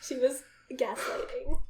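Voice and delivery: whisper. Acted. Whispered joke reveal.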